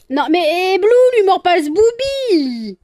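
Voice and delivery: high, very loud exasperated yell; real scolding shout. Real, not acted. Owner to biting pet, high scolding shout.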